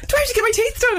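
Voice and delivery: high, hammed-up panicky question; worried fella. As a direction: ask it like a man suddenly insecure about his teeth. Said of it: "He's like".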